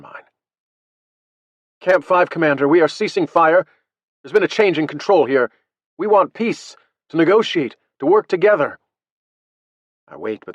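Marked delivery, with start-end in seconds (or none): 1.8-8.8 loud, raised radio voice, phrase by phrase; slow, careful speech. A narrator's reading. Hailing the French over radio, spoken slowly and clearly. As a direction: separate each phrase clearly for a foreign listener. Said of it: "and speak slowly".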